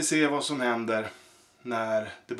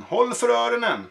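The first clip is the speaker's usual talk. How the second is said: calling out; 9 semitones higher than usual. Acted. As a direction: announce to the whole tent. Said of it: "ropade han".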